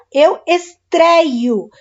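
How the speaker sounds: "estreio" drawn out very slowly with an open "éi". Shown as a demonstration. Teacher to students, stretching estreio to show the open ei. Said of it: "Você fala esse acento".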